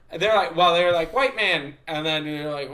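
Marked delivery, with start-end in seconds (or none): 1.1-1.7 higher-pitched mimicked kid; kids calling out. Little kids addressing the visitor, imitated calling out. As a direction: lightly imitate a kid pointing someone out.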